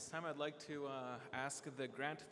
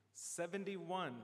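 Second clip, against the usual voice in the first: slow, drawn-out number call; raffle caller; 4 semitones higher, much slower than usual. Real, not acted. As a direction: stretch the number out for the room. Calling raffle number at meeting.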